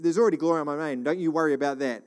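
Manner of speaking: lightly voiced Father, quick and easy; a hint of a reassuring father. God reassuring his Son, mildly fatherly. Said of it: "He said".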